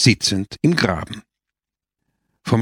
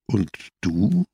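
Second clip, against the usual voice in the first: calm; 2 semitones lower than usual. A narrator's reading. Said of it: "warf Don Camillo ruhig ein".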